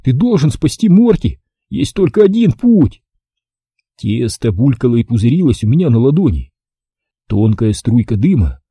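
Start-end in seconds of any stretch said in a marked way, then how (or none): 0.0-3.0 urgent, higher-pitched resolve; ordering oneself. A narrator's reading. Boy orders himself to save dog, commanding. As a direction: push yourself with rising urgency. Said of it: "приказал я себе".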